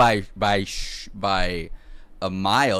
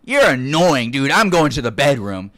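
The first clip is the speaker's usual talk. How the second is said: mock annoyance; 3 semitones higher, 7 dB louder than usual. Girlfriend snaps at poisoned boyfriend.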